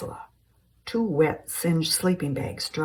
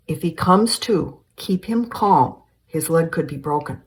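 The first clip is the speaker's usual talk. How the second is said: urgent instruction; 7 dB louder than usual. Acted. Basil urges Ted about injured Frank.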